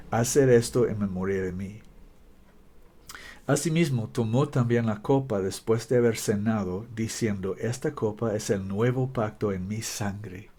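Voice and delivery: Spanish with an American accent. Real, not acted. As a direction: read Spanish like an American learner. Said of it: "Perdón mi español".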